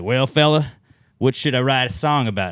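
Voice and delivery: folksy drawled country singer; a hint of a Southern country boy; country guy voice. Country artist voiced in retold chat.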